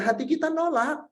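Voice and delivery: ordinary talk, nothing marked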